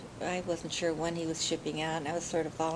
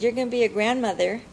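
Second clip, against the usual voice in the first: bright, louder news blurted out; excited announcement; 4 semitones higher, 7 dB louder than usual. Retold or imitated. Daughter breaks the news to her mother, excited. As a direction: tell her the big news with a burst of joy.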